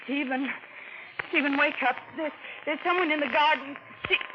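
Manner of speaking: urgent calling. Acted. Waking husband, intruder in garden.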